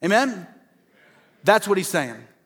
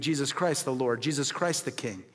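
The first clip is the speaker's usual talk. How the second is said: hushed reverence; 4 semitones lower, 9 dB quieter than usual. Real, not acted. Softened reverent climax.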